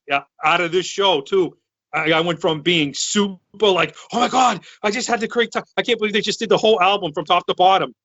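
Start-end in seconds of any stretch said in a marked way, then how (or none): 4.1-7.9 excited. Retold or imitated. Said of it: "I was so excited".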